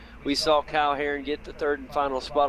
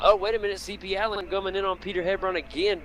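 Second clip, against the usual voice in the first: excited; 6 semitones higher, faster than usual. Real, not acted. Sudden overtaking attempt on track.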